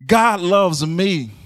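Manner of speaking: slow, drawn-out affirmation; slow meditative repeat. Shown as a demonstration. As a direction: savor each word slowly. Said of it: "we have to meditate".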